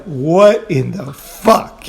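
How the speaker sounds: very slow, word-by-word bafflement; retold disbelief. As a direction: stretch each word out in mock disbelief. Retold disbelief at suited swimmers.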